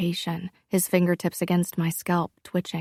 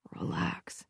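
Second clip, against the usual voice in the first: soft, low and breathy; 11 dB quieter than usual. A narrator's reading. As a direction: hush it, almost a whisper. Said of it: "he said in a low voice".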